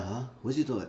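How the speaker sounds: distracted, soft, moaning phone answer; mock moaning on the phone; imitated moaning. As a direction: answer quietly as if mid-moan. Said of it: "He was just moaning".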